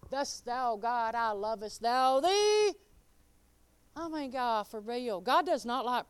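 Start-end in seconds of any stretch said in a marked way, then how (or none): 0.1-2.7 mock archaic prayer. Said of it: "you don't gotta go".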